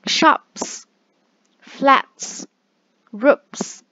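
shops, flats, roofs đọc to, nhấn âm s cuối; loud, clear final s; s ending words. Shown as a demonstration. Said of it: "con sẽ đọc là s, ví dụ". (nhấn âm s cuối từ)

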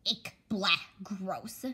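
whispered ick, blah, gross; disgusted whisper. Acted. Little sister whispering her disgust about the present, hushed. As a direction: mutter your disgust under your breath.

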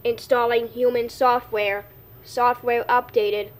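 slow, lightly voiced robot; a hint of a slow machine voice. Kid plays a robot.

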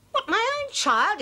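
high, slow, wounded cry; mother shocked at her own child; pleading disbelief. Acted. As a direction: plead against the betrayal.

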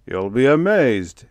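gleeful boast rising high and loud; loud, swelling promise of amazement; chortling. A narrator's reading. General teasing his companion about his project, chortling. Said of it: "he chortled".

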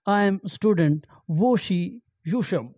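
normal talking voice

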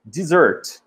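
Dessert said as diZERT, stress at the end; Dessert, sílaba tônica no final; clear model word. Shown as a demonstration. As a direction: model Dessert slowly, stress last syllable. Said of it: "Não vai confundir com desert".

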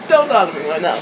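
low, wrought-up refusal; emotional state. Real, not acted. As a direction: push them away, distraught. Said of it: "I'm in an emotional s-, fucking state".

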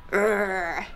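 low playful dog growl; silly growl. Pretend. Host makes dog noises for children, silly low growl. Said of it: "That was a silly growl".

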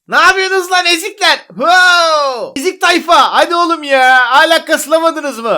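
calling across to mock the other players; cocky jeering call; taunting call-out. Real, not acted. Calling over to rival players as losers, jeering. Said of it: "oradan bağırmak da olmuyor".

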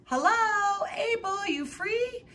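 sing-song neighborly holler; hollered call. A narrator's reading. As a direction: call out across the yard. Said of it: "she hollered".

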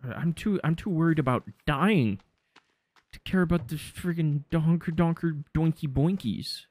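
a lightly squeaky worried whine; mock frantic. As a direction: rant like a panicky worrier. Worried about dying, higher.

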